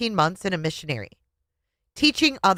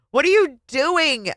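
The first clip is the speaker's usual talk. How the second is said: high, raised and slow; husband yelling in the car; yelled; 10 semitones higher, 4 dB louder, slower than usual. Acted. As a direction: demand it angrily. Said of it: "he yelled again".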